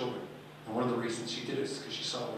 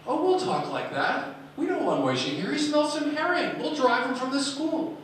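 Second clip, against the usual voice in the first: jeering schoolkids; 12 semitones higher, 7 dB louder than usual. Retold or imitated. Classmates mocking little Moishi to the teacher, high loud jeering. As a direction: sneer it out like cruel classroom bullies.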